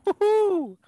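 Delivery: high loud cheer; shouting as noise stops. Real, not acted. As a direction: whoop it up loudly. Cheering the beer can opening.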